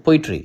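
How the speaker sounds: "poetry" with a firm "po", the rest falling away; "poetry", front-stressed with a falling end. Shown as a demonstration. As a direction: hit the "po" of "poetry", ease off "etry". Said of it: "पो को हम लोग थोड़ा सा तेजी से stress देके".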